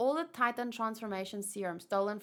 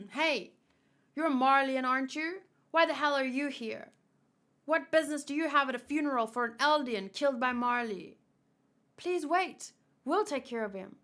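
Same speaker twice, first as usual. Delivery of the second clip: a hostile guard, voiced somewhat higher and louder; 4 semitones higher, 5 dB louder than usual. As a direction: confront the stranger at the funeral with suspicion. Reads a hostile guard's lines.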